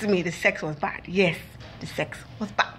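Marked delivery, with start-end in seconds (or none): 1.8-2.7 "the sex was bad" breathed in a whisper; confiding the verdict in a whisper; whispered aside. Shown as a demonstration. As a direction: drop to a whisper like a secret. Repeated, second take whispered.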